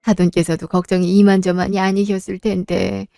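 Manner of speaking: frail mother. Acted. Sick mother voiced by same actress. (아픈 엄마가 딸에게 미안해하며 낮고 조용하게)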